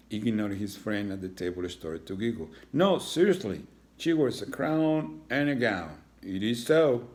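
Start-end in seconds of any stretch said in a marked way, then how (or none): 2.7-7.1 put-on insistent kid. Iggy insists.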